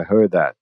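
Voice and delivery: HEARD THAT run together, D sliding into TH; connected-speech demo of HEARD THAT; linked consonants. Shown as a demonstration. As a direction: blend the end of HEARD into THAT. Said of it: "porém samba fora".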